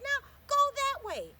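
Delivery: high, loud and slow direction; eagerly pointing the way; thrilled child calling out; excited child. Acted. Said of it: "She said".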